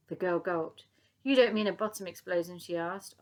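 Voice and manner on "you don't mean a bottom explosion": loud, disbelieving question; shocked. Acted. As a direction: gasp it out in shock. Shocked girl.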